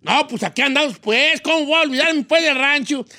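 high, sing-song Michoacán reply; Michoacán accent. Acted. Returning vato answers his ranch friend, Michoacán accent. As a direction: stretch the greetings out like a Michoacán ranchero. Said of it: "cómo le responde el otro".

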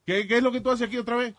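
mock the doorman's question with a laugh. Laughing as he retells the doorman asking why he's there. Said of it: "y al final me dice".

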